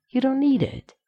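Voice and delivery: murmured. A narrator's reading. John reassures Rodney about his cloak, murmured coaxing. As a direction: coax gently, as if into an ear. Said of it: "John murmured into Rodney's ear".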